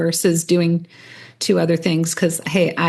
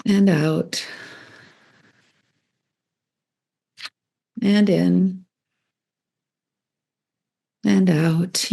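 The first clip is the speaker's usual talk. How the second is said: even, unhurried meditation guide with long pauses; level, measured instructions with space to breathe; guided meditation. Real, not acted. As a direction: ease listeners into their breathing.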